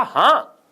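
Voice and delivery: HÃ as one unbroken syllable; हाँ in one stroke, nothing split. Shown as a demonstration. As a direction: say हाँ in a single burst of breath. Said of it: "एक आघात में, जैसे मैंने कहा".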